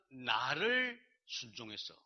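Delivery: slow, drawn-out "나를 순종해서"; deliberate, foreign-phrased pronouncement; God speaking English-like Korean. Retold or imitated. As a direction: stretch the words like a translated divine utterance. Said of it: "영어로 말씀하시는 것처럼".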